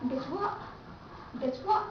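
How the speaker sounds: "Guess what" with the last T cut off; unreleased final T. Shown as a demonstration. Teacher gives a sentence-end example, final T unreleased. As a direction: stop short on the T of "Guess what". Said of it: "when the letter T stands at the end".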